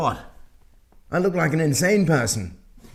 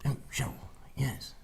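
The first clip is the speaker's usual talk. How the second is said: whispered, soft documentary tone; David Attenborough; 3 semitones lower, 6 dB quieter than usual. Pretend. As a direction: breathe it like a nature narrator. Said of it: "as David Attenborough".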